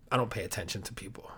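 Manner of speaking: fast unvoiced whisper. Real, not acted. Host confessing to listeners in a quick whisper.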